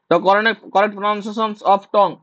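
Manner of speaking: very slow, word by word; slow dictation. Shown as a demonstration. Teacher dictating the question to students, very slowly. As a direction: read it out slowly so they can write. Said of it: "teacher dictating the question".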